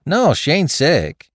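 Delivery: high, loud, stretched-out denial; eager denial. A narrator's reading. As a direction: deny it readily, pitch jumping up. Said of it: "replied the woman with alacrity".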